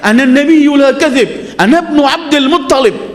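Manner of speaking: high, ringing battlefield call; retold rallying cry. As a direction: imitate a leader calling to rally his troops, pitched high. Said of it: "lompat dari kudanya sambil teriak".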